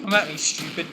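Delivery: lightly put-on British accent. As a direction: taunt in a mild mock British accent. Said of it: "picks up my British accent".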